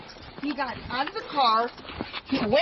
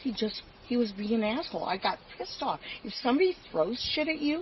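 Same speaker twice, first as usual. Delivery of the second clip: slurred speech; 6 dB quieter than usual. Real, not acted. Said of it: "you're slurring a ton".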